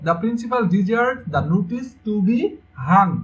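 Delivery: slow reading, pausing before the last word; slow answer reading. Shown as a demonstration. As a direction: read it out slowly, holding back the answer. Slowly reading corrected answer.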